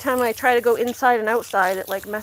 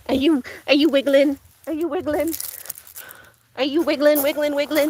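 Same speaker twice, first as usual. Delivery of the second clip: pet talk; 4 semitones higher than usual. Real, not acted. Asking the wiggling dog, high playful pet talk. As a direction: coo at the wriggling puppy.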